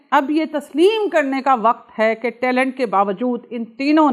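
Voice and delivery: lightly imitated indignation, emphatic delivery; firm, projected quote with punched key words; angry Mohammad Hafeez quote. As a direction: read out a critic's case with mild heat. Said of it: "لیکن آپ کی tone دیکھیے".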